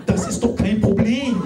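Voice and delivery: high, overly sweet forgiving giggle; sweet forgiving partner. Pretend. The smitten partner forgiving a dented BMW, sugary and high. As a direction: gush forgiveness at your darling.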